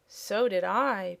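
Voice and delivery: purring kitten. Acted. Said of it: "purred the kitten".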